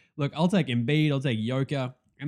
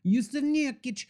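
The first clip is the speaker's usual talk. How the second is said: retold excitement; 8 semitones higher than usual. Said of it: "I was all excited".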